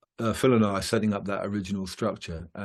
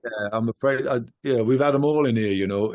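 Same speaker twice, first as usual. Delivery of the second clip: put-on a light northern English accent, a touch louder; 3 dB louder than usual. Singer recalling venue engineers, light northern English accent. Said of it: "I don't know why I do that in the northern accent".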